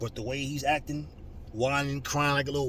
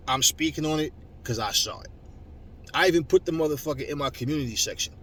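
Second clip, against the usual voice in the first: normal talking voice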